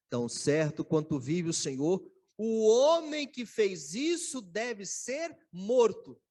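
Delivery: loud indignant oath, last line slowed right down; nervous angry oath. Retold or imitated. Preacher voicing David condemning the guilty man, loud and indignant. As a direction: thunder out the verdict in outrage. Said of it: "ficou muito nervoso e falou assim".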